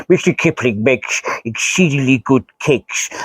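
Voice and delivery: smooth TV cake-advert voiceover; Mister Kipling advert. Pretend. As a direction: purr it like an old cake commercial. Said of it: "that sounds like Mister Kipling".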